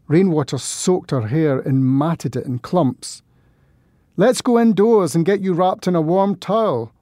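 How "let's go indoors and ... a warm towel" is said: shouting over thunder. Acted. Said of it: "I shouted over the thunder".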